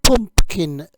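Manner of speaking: slow, clear "pumpkin seed."; slow teaching model. Shown as a demonstration. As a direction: draw out "pumpkin seed." for learners.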